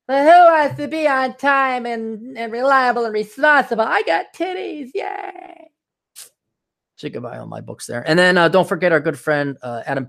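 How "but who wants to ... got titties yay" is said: high, slow mocking bimbo voice; mock airhead girl. Mocking unreliable pretty girls in a high ditzy voice. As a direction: lampoon a pretty girl who won't show up.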